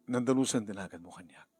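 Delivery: through tears; holding back sobs; tearful plea, first take. Acted. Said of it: "Are you crying?".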